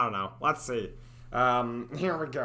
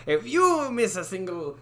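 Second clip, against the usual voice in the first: raised Italian-tinged character voice with big inflections; inflected character voice; 4 semitones higher, 3 dB louder than usual. Shown as a demonstration. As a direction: swoop through it in the accented voice. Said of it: "nice inflections with this".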